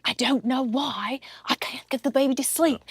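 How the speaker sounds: put-on a soft, light British nanny accent. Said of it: "she was British".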